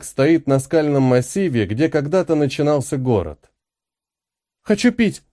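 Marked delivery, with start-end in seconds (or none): 4.6-5.2 высокий тонкий писк маленькой девочки; пискни, как капризная малышка; детский писк. Acted. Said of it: "пискнула малявка". (пищит девочка, просит пить у матери)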